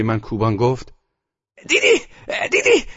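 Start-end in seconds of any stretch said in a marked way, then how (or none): 1.7-2.1 put-on high, loud triumphant old woman; see? rising, delighted; gloating grandmother. A narrator's reading. Grandmother gloats after win. 2.5-2.9 high, loud, falling gloat; see! landing firmly; triumphant grandmother. A narrator's reading. Grandmother gloats after win.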